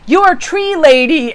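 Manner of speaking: imitating a thrilled cobbler, high and loud; delighted recognition. Cobbler suddenly recognises the customer who gave a tree, excited.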